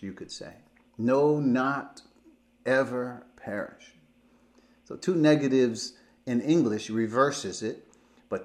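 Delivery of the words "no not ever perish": "No" and "not" hit firmly, "ever" leaned on; stress on no, not ever. Shown as a demonstration. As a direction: drive home "No, not ever". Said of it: "So I can translate that".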